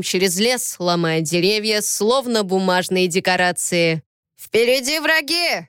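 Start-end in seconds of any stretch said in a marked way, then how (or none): 4.4-5.7 hoarse warning, pitched up; loud hoarse call. Acted. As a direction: rasp out the warning loudly. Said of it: "громко прохрипел Болин". (громкий хрип)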